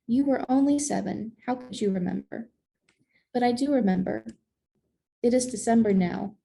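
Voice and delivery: measured picture-book reading, savoring each phrase; story narration. A narrator's reading. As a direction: read it to children in unhurried phrases. Reads a picture book aloud.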